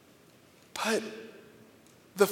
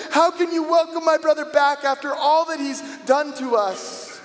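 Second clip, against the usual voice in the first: raised, heated pleading that falls away at the end; angry outburst; 5 semitones higher than usual. Retold or imitated. Older son venting at his father over his brother, angry. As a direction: let it all out at dad, then drop off. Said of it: "I'm sorry I'm so angry".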